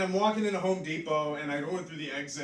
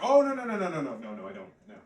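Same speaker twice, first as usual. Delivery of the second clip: a flustered denial dying out; refusing the beggar, loud at first, then trailing off; 4 dB louder, faster than usual. Retold or imitated. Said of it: "I was like".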